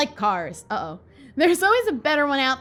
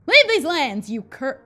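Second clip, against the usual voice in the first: intense, commanding villain read; 6 dB louder than usual. Acted. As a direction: order them off with force. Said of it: "Wow, that was intense".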